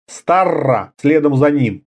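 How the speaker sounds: usual speaking voice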